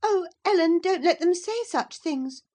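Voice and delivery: high, loud distressed plea; pleading in near tears; in great trouble. A narrator's reading. Cathy begs Ellen, in great trouble. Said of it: "she pursued in great trouble".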